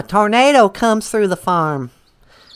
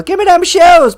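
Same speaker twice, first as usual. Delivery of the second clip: higher, louder demand for the shoes; mock witch yell; 9 semitones higher, 7 dB louder than usual. Witch yelling at Dorothy for her shoes, mock loud. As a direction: snap it like a greedy witch. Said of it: "the other witch goes".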